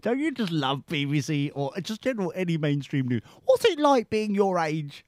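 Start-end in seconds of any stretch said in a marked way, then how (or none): 3.4-5.0 mocking repeat. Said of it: "What a leading question".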